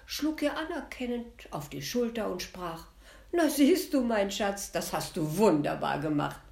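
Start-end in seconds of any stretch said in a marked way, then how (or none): 3.3-6.4 loud, jovial praise from the prince; hearty prince. Acted. Prince praising his wife after her work, loud and hearty. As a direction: clap her on the shoulder with your voice.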